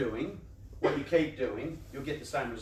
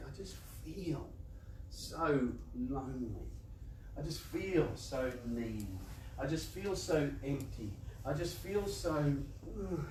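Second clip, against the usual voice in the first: quiet self-pity; 2 semitones lower, 7 dB quieter, slower than usual. Retold or imitated. Voicing lonely inner self-talk at night.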